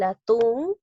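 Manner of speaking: "atún" with the last syllable, TÚN, drawn out; stress on final syllable. Shown as a demonstration. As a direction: lean long on TÚN in "atún". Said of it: "lleva la mayor fuerza de voz".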